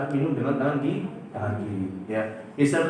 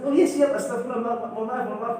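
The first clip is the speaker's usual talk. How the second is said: startled apology; 7 semitones higher than usual. Retold or imitated. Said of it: "duduk langsung Ustaz".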